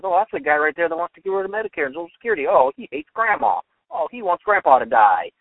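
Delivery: mock the people who cry he hates Grandma; mock outraged accusers. People pointing at the budget cutter, hammed-up mock outrage.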